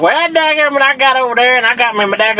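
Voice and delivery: mock redneck Southern accent; Southern hick voice. Mocking own Southern twang.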